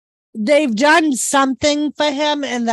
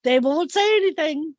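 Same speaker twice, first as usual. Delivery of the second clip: emphatic retelling; 6 semitones higher than usual. Retold or imitated. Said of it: "I'm like".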